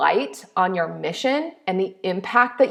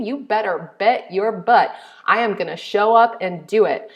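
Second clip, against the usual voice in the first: normal talking voice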